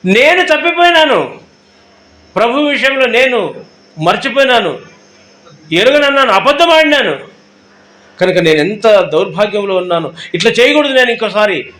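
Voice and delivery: grieving confession; remorseful lament. Retold or imitated. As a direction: voice Peter's regret, lifting the pitch. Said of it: "అని చెప్పేసి".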